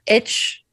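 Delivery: H said the Arab-world way, as "etch"; letter H in Arab-taught English. Shown as a demonstration. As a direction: say H with a short vowel, like "etch". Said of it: "you know, we say H".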